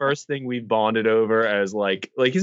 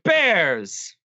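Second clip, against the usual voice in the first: mock Russian accent, pitched up; 6 semitones higher than usual. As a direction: call it out like a pretend Russian. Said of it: "talking in a Russian accent".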